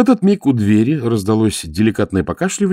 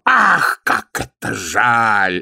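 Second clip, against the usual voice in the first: mock regret; 3 semitones higher, much slower than usual. A narrator's reading. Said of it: "огорчился Аметистов".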